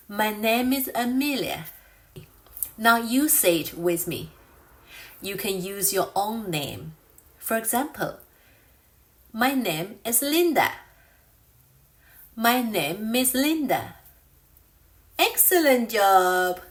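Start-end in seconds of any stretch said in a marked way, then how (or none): 0.1-1.7 "My name is Amelia" in one smooth run, "name" joined to "is"; linked words. Shown as a demonstration. Teacher modelling for learners, "My name is Amelia" linked smoothly. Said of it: "when linking the sounds together". 9.3-14.0 "My name is Linda" with "name" flowing into "is"; linked words. Shown as a demonstration. Teacher giving an example to repeat, "My name is Linda" linked. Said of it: "when linking the sounds together".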